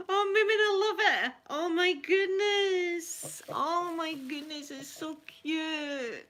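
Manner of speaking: high, loud gush through laughter; real laughing rush of thanks; laughing delight. Real, not acted. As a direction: bubble over with joy. Loves the hat, laughing.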